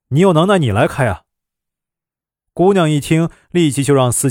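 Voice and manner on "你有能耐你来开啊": quick, sulky challenge; grumpy dare. Acted. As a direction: throw it back at her, fast and sour. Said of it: "司机没好气地说". (没好气地快速回嘴)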